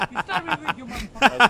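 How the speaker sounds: loud taunting shout. Real, not acted. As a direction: yell it at the camera. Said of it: "Why are you yelling".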